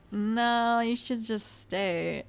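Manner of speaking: drawn-out, reluctant no, slowing to a crawl; reluctant brush-off. Retold or imitated. Brother putting off his little sister, reluctant brush-off. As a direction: stall with a long, dragged-out refusal.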